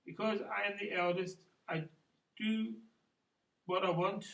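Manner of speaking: halting spoken verse after singing; poem recital. Acted. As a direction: recite it with pauses between short phrases. Continues the poem more spoken.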